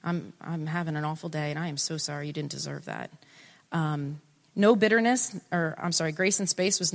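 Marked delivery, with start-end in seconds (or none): 0.0-3.1 softer, lower apology; sincere apology. Acted. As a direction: quietly own the blame. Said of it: "Just saying".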